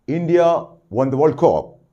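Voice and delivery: excited news of a World Cup win; happy good news. Shown as a demonstration. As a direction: share it like thrilling news. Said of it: "It's something like good news".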